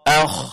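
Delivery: rasping "akh" held long in the throat; kha with sukun. Shown as a demonstration. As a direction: let the "akh" scrape on. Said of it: "huruf kha".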